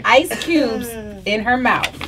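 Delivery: slow, teasing double meaning; suggestive innuendo. Real, not acted. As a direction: drag it out with a wink. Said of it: "you said it three times".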